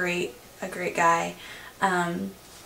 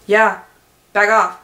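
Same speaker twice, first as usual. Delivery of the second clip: put-on possessive kid; 7 dB louder than usual. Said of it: "Monkey's like".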